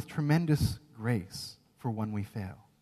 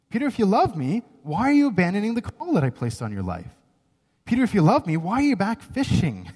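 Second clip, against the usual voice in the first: higher, louder, pressing questions; firm rebuke; 4 semitones higher, 4 dB louder than usual. Acted. Jesus firmly rebuking Peter to get back to work. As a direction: push Peter hard, firm but caring. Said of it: "it is a rebuke".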